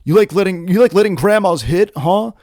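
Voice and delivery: confrontational truck driver. Pretend. Imagined truck driver goading her about grandmas, mock taunting. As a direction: needle them like a hammed-up accuser. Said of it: "pop out of the truck and be like".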